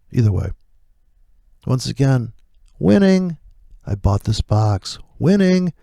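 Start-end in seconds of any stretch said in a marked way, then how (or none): 2.8-3.4 gloating. Real, not acted. Gloating over his win. 5.2-5.7 gloating. Real, not acted. Gloating over his win.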